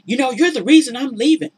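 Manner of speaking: high mock whine of the cheating man; mock blaming man. Boyfriend blaming Tara as he leaves, mock high whine. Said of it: "he starts blaming her".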